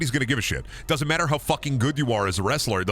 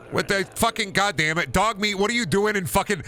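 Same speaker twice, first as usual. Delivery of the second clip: shocked yell; 13 semitones higher than usual. Real, not acted. Streamer yells at glitched dog companion, shocked and laughing. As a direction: screech in disbelief at the glitch.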